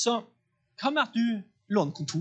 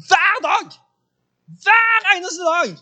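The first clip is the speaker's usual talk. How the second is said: high, loud and slow, every word hammered; preaching shout; 10 semitones higher, 8 dB louder, slower than usual. Real, not acted. Preacher stresses to the congregation how long it lasted, in a loud high shout. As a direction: proclaim it like a revival preacher.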